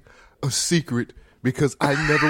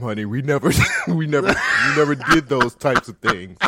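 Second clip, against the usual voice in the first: put-on singer's accent; 3 semitones lower than usual. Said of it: "This accent you put on".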